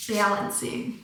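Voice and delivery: balancing said with a broad Michigan a; a quiet Michigan balancing; Michigan accent. Shown as a demonstration. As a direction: lean into the Michigan vowel in balancing. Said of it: "I don't know why I say it like that".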